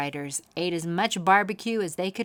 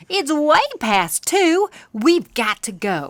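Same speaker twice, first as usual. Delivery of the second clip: urgent alarm; 9 semitones higher, 8 dB louder than usual. Acted. Katie realising they are late, urgent and loud. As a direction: press the words out in a hurry-panic. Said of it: "she yelled".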